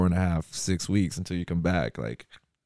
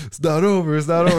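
high, loud insistent repeat; imitated protest; 7 semitones higher, 6 dB louder than usual. Bodyguard to the cheering tour crew, high mock yell. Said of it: "Pep's like".

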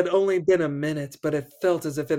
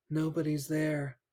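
softer strained ghostly reply; 5 dB quieter than usual. Acted. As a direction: squeeze the words out. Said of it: "the same strained voice replied".

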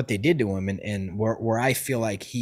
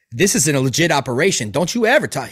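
raised, louder voice, stern and heated; angry scolding; 5 dB louder than usual. Retold or imitated. Driver pulls over and scolds the passenger, heated and loud. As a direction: chew him out like a furious soldier.

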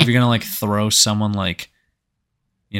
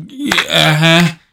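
higher, slow mocking uh-huh; mock agreement; 6 semitones higher, 4 dB louder, slower than usual. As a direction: drag out a sarcastic yeah. Mocking the twin sisters.

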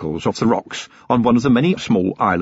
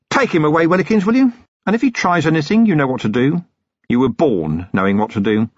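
lightly voiced weary copper, cold threat; a hint of a hard-bitten watchman; Vimes, grim and controlled; 6 semitones higher than usual. Vimes orders Willikins.

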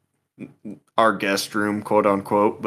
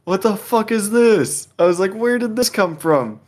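retold shock; 6 semitones higher than usual. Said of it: "my initial reaction was like".

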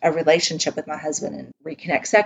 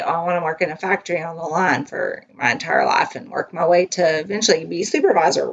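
mock career wish, dry sarcasm; sarcastic; faster than usual. Woman mocking factory-line dreams, sarcastic. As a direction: say it like nobody would ever dream it. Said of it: "a lot of sarcasm in that".

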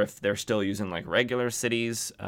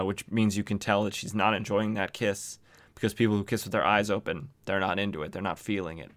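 ordinary talk, nothing marked

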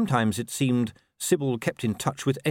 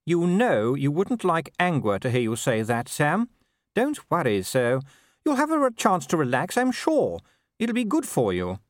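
high-pitched wife, fondly chiding; well-meaning wife, pitched up; Sybil; 6 semitones higher than usual. A narrator's reading. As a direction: soothe your husband in a high, lilting voice. Voicing Sybil reassuring her husband.

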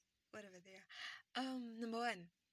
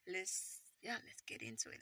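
low voice; 9 semitones lower, 5 dB quieter than usual. Acted. Repeating the start line.

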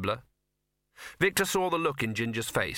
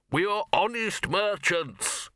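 slow, higher announcement for all to hear; repeated loudly; 8 semitones higher, much slower than usual. A narrator's reading. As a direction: say it out loud for the onlookers, drawn out. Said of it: "he repeated loudly".

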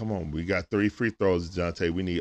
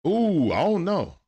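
slow, rising ooh of doubt; doubtful ooh; 7 semitones higher, 3 dB louder, slower than usual. Real, not acted. Streamer doubting whether the call will stand, slow. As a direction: linger on the ooh, unsure.

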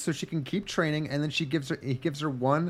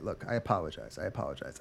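mock apology; 10 semitones lower, 11 dB quieter, faster than usual. Girl backing down.

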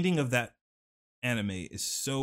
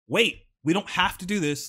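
higher, louder mock begging; retold desperate pleading; 7 semitones higher, 7 dB louder than usual. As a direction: act out someone breaking down, without real tears. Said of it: "he begins crying and begging".

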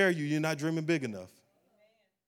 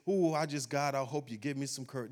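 timid prayer; 4 dB quieter than usual. Pretend. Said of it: "Courage is something you can't just".

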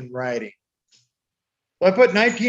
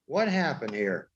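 glitchy Zoom audio; call dropping out; 6 semitones lower, 10 dB quieter than usual. Real, not acted. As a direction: voice breaking up over a bad connection. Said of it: "You're glitching a little bit".

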